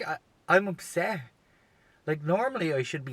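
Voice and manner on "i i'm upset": high, stumbling upset confession. Retold or imitated. Comic repeating his reaction to the bad news, upset. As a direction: stammer into an upset admission. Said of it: "for real, I was, like, upset".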